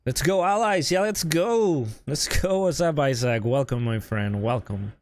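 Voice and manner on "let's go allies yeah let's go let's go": upbeat, higher cheering call; rally the team with a pumped-up cheer; excited cheer. Real, not acted. Streamer cheering on the allied team after the round, excited.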